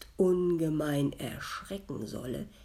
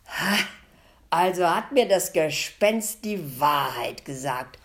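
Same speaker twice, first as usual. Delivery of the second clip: relieved; 8 dB louder than usual. A narrator's reading. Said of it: "sprach der Metzger erleichtert".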